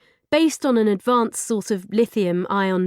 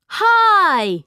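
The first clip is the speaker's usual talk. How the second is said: bright louder higher hello; smiling greeting; 12 semitones higher, 8 dB louder than usual. Acted. Girl greeting the new robot, cheerful smile. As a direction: greet it with a big friendly smile. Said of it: "she smiled at the robot".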